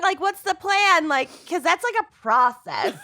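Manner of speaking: squeaky rushed mock question; high-pitched quote. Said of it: "remember being like".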